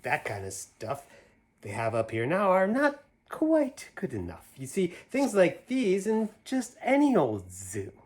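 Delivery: lively, sing-song picture-book reading; reading to children. Acted. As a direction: read it out like a bedtime story for little ones. Reads picture book aloud.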